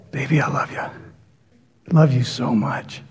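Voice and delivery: soft, low crooning; a hint of a sweet-talking lover; seductive murmur. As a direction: coo it like a smooth-talking manipulator. Mocking manipulative lover.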